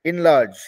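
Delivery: इनलार्ज opening on a vowel between इन and एन. Shown as a demonstration. Teacher showing students the sound, इनलार्ज begun between इन and एन. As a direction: say इनलार्ज starting midway between इन and एन. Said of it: "आई और एन जो के बीच का है".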